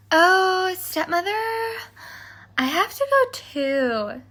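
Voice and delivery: put-on high, eager girl; Cindy pleading. A narrator's reading. Cindy begging her stepmother to go to the ball, eager. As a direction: beg to go along.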